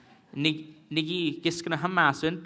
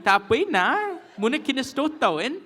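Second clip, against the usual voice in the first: high, louder, laughing protest; own past self; 10 semitones higher, 5 dB louder than usual. Retold or imitated. Learner protesting to the elder, laughing and high. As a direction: play your younger self pleading, laughing. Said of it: "I was like".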